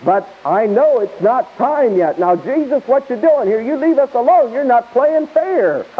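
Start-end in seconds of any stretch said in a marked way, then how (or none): 2.2-5.9 mock devil spirits. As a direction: play the cornered demons pleading with Jesus, half in jest. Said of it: "Devil spirits talking to Jesus".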